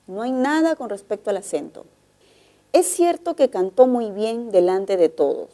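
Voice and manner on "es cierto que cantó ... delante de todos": statement tune, falling at "todos"; descending tone. Shown as a demonstration. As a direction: let "delante de todos" settle downward. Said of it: "el tono final es descendente".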